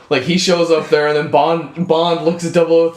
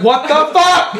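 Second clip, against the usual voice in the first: mock baffled; 9 semitones higher, 3 dB louder, slower than usual. Bond reinstated, baffled.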